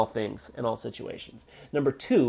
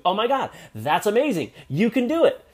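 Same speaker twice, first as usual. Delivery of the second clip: much higher, excited encouragement; imitating cheering; 7 semitones higher than usual. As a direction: gush like a proud friend. Encouraging someone's book plan.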